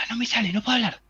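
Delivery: a hint of a frozen throat; strangled voice. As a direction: act out a voice that won't come out. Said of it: "habrá tratado de gritar y no puede".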